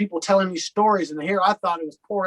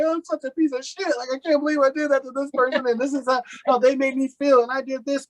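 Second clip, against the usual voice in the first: much higher-pitched, imitated anguish; retold tearful self-reproach; 9 semitones higher than usual. Recovering man reliving his step work, imitated tearful guilt. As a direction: replay crying over past wrongs, voice pitched way up. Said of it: "I cried during all of this".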